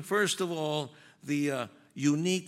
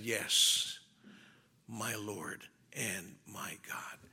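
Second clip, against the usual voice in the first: slow, low, hushed near-whisper; reverent statement of faith; 8 semitones lower, 6 dB quieter, much slower than usual. Acted. Thomas confessing faith on seeing Christ's wounds, hushed reverence. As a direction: confess it softly and slowly, with awe. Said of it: "giving a powerful statement of faith".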